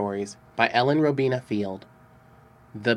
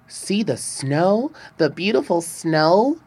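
put-on excited children; 6 semitones higher than usual. A narrator's reading. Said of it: "they cried".

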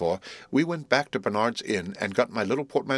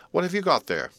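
exasperated nurse; 7 semitones higher than usual. A narrator's reading. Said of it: "returned Flopson".

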